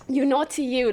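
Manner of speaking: mock British accent. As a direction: tease in a put-on British accent. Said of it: "so they have an accent".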